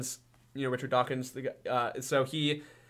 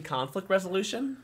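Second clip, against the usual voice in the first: sarcastic mock disbelief; 5 semitones higher than usual.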